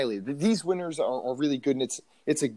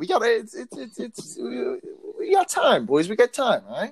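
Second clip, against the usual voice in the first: hyped up; 8 semitones higher than usual. Real, not acted. Hyping the boys up.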